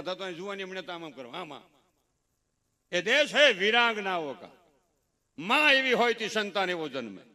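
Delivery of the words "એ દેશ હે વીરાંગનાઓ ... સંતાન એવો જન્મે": preaching at full force. Acted. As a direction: drive the moral home like a sermon. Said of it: "preaching climax". (જોરથી ઉપદેશ આપતા હોય એમ, ધીમે અને ભારપૂર્વક)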